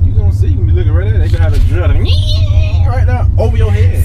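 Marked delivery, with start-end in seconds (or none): 1.2-4.0 teasing shout. Acted. Teasing about the drill.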